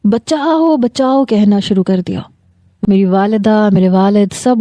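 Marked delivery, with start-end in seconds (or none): 0.0-1.2 high, urgent calls of بچاؤ; crying for help. Acted. Girl calling the family upstairs, high cry for help. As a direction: call out for help as if trapped. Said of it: "میں نے شور مچانا شروع کر دیا".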